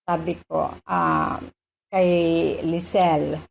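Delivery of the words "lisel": ordinary delivery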